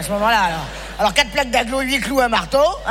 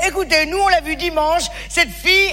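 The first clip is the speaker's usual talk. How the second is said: imagined friend; 4 semitones higher than usual. Pretend. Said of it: "vous direz".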